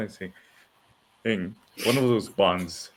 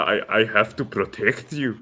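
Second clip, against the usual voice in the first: Scottish accent attempt. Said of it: "What's that Scottish accent?".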